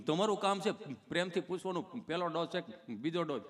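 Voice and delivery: lightly voiced halting stammerer; a slight catch between phrases; tongue-tied Gabho. Gabho explaining to the nurse, mildly stammering. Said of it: "ચોંટે અટકે".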